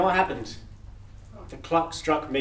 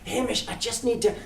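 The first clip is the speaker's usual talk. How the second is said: higher, urgent cut-off plea; trying to break in; Death interrupting; 7 semitones higher than usual. Acted. Death trying to get a word in with Hamish.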